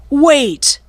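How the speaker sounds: high desperate call; cried out. A narrator's reading. Pirate captain cries out to his fleeing crew. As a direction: shout after the boat. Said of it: "cried Cap'n Bones".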